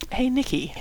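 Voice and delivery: gentle and careful; gently. A narrator's reading. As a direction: ease him in kindly. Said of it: "Howie said gently".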